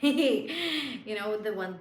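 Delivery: ordinary talk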